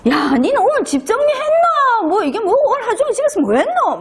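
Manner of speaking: high, mock Gyeongsang-dialect husband griping; hammed-up husband complaining about the house, with a laugh; scolding husband. Husband home from work nagging wife in dialect, high and mocking.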